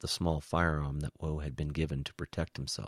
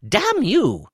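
very loud, high curse; furious shout; 13 dB louder than usual. A narrator's reading. Woe curses the spy who used him, shouting. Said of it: "Woe shouted as his head felt ready to explode".

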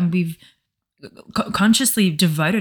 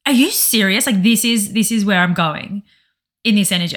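higher and louder, incredulous; mock outrage, pitched up and pushed; retold disbelief; 3 semitones higher, 4 dB louder than usual. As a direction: ask it again and again, not believing it. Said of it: "I'm like".

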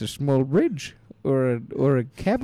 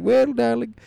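Lynette's voice; 3 semitones higher, 3 dB louder than usual. Acted. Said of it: "It's me just putting on her voice".

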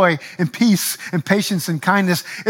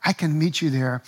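gentle reassurance; 3 semitones lower, 4 dB quieter than usual. Retold or imitated. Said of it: "Jesus will say".

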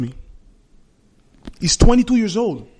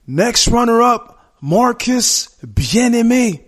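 announcer call; 4 semitones higher, slower than usual. Retold or imitated. Retelling announcer calling the result.

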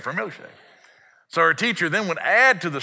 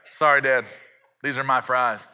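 put-on understated child's refusal; matter-of-fact refusal. Five-year-old guarding fries from dad, understated refusal. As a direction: turn him down coolly, no fuss.

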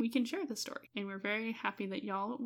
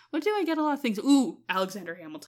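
pretend future self; 6 dB louder, faster than usual. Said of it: "next month I'm gonna be like".

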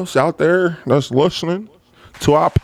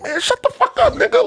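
much higher, irritated retort; snapping back. Retold or imitated. Telling the coworker to shut up, irritated high retort. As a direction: cut him off hard.

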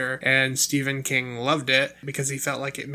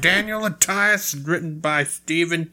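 louder, hammed-up trailer announcer; mock announcer voice; 3 semitones higher, 4 dB louder than usual. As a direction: play up the sarcastic movie intro. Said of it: "I was trying to do an announcer voice".

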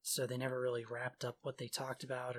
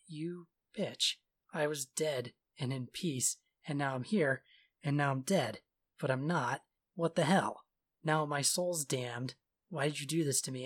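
raised, louder mock rant building to a yell; furious king; 3 semitones higher, 5 dB louder than usual. Resurrected king yelling at Isabel, louder hammed-up fury. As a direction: rant like a dead man dragged back. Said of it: "And he's like".

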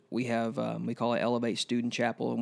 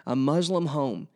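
emotional; 4 semitones higher than usual. Real, not acted. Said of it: "I'm trying not to get emotional".

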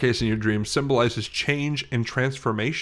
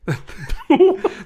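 badly faked cough; a poor fake cough, half laugh; 6 dB louder than usual. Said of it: "That was my poor attempt at a fake cough".

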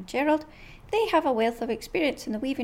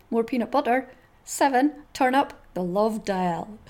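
dog's thoughts voice. Acted. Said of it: "read you some more".

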